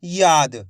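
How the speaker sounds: याद with a long, stretched या; drawn-out vowel. Shown as a demonstration. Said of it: "या का उच्चारण यहाँ पे खेच को हो रहा".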